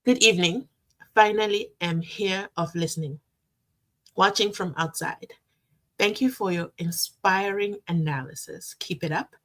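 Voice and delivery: reading the comment out word by word; careful slow read. Shown as a demonstration. She rereads the viewer's comment slowly to understand it. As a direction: read it slowly to make sense of it. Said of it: "let me read this slowly".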